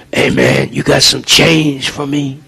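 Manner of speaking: whispered, slow, slurred mock panhandler asking for change; street panhandler voice. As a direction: imitate a drunk beggar begging, breathy and dragging. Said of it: "they, you know, say".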